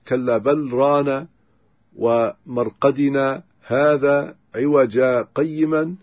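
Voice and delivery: slow recitation with a short silent stop inside the phrase; brief pause sakt. Shown as a demonstration. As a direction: hold a short breathless pause where the sakt falls. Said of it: "السكت الذي نعرفه". (سكتة لطيفة دون تنفس)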